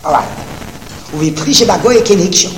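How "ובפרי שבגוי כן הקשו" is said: racing through the Hebrew source text; fast singsong yeshiva reading; rapid text reading. Acted. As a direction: rattle off the quote quickly, like a study partner.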